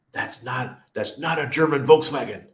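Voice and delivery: mock German critic. Germans judging his Italian-built car.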